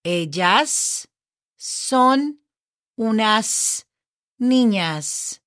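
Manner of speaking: "Ellas... son... unas... niñas" word by word, each final S held; slow teaching model of "Ellas son unas niñas", pausing between words to expose each S; audible final S. Shown as a demonstration. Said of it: "Can you hear that S at the end?".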